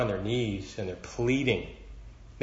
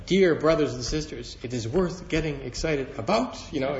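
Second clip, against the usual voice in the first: imitating Clayton; 4 semitones higher than usual. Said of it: "And I can just hear Clayton saying those".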